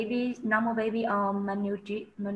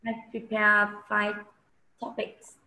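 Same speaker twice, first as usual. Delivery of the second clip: hoarse from a sore throat. Real, not acted. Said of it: "I have sore throat".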